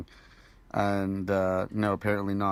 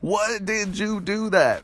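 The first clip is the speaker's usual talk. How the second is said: much higher, slow cartoon dragon wail; squeaky dragon voice; 9 semitones higher, slower than usual. Drogon mourning his mother, high slow squeaky wail. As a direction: drag out a high silly dragon cry.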